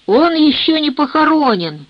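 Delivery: cheerful exclamation. A narrator's reading. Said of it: "бодро воскликнул Люк".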